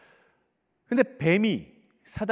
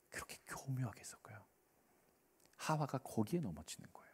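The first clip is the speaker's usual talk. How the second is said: hushed whisper; 4 semitones lower, 15 dB quieter than usual. Real, not acted. Preacher explaining Satan's subtle mixing, in a whisper. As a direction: drop to a very soft whisper.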